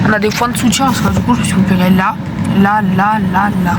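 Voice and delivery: in pain after surgery, slurred; weak after surgery. Real, not acted. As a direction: numb lip, pained speech. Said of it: "j'ai envie de pleurer".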